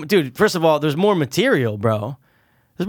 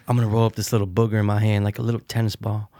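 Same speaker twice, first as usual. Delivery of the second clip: quick, low mock parody line; Jim Carrey parody quote; 6 semitones lower, 3 dB quieter, faster than usual. Retelling the Jim Carrey parody to a friend, fast and low.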